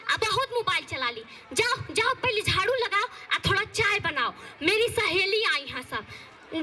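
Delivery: a hint of a stern village saas, nagging; lightly voiced scolding mother-in-law. Mother-in-law scolding daughter-in-law over her clothes, nagging.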